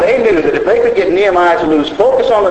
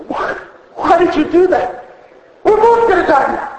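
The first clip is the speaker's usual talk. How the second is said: mock dying frog. Dying frog's cry in story.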